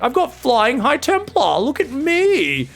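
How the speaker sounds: high, slow mock-proud voice; mocking Dark. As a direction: draw it out like a child showing off. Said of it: "He's like".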